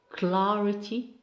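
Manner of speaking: "clarity" with its first syllable stressed. Shown as a demonstration. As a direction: say "clarity" as CLA-ri-ty. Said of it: "mark stress on the first syllable".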